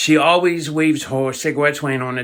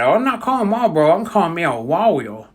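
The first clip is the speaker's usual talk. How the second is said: excited granny. Retold or imitated. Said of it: "And she said".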